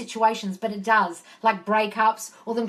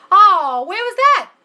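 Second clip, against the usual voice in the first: loud, high, startled question; surprised exclamation; 9 semitones higher, 11 dB louder, slower than usual. Real, not acted. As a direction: cry out in surprise. Startled at having missed a message.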